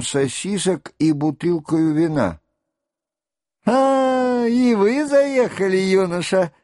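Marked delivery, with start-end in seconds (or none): 3.7-6.5 high, mock-friendly greeting; smiling, eyebrows raised. A narrator's reading. The lieutenant greeting Rostov with a smile. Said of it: "улыбаясь и высоко поднимая брови".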